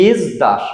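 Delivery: ইসদাস said as ইজদাস; ইসদাস with z, not দন্ত স; z sound pronunciation. Shown as a demonstration. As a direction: give ইসদাস a voiced z. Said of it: "এখানে ইজ, জের উচ্চারণটা হবে".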